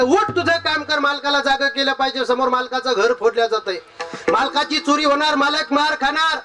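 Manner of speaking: lightly acted urgent, high-pitched warning; urgent urging. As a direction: raise the pitch to urge a sleeper up. Donkey urgently rouses the dog.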